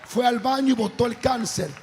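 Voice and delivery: forceful, projected sermon voice; preaching. Real, not acted. Preacher urging the congregation to trust, forceful preaching.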